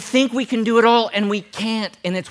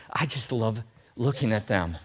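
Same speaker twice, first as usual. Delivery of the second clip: soft, low mock-smitten voice; hushed, hammed-up fondness, much lower; mock adoration; 9 semitones lower, 9 dB quieter than usual. Mocking a fan of the mail person, softly adoring. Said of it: "You're like".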